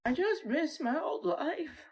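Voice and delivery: whispered through tears; slow, barely voiced weeping; a whispered sob; crying whisper. Real, not acted. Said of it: "I can't help but cry today".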